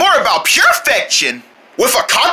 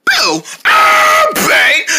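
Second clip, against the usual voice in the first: startling boo; 4 dB louder, much slower than usual. Acted. Jumps out to scare.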